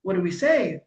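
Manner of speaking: a hint of panicked parents; voicing the family. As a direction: play the lost family. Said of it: "they're like".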